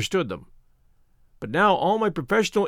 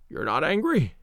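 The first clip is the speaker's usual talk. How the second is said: gasping for breath. A narrator's reading. Feverish Holmes to his friend, gasping for breath. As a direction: ask it short of breath. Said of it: "gasping for breath".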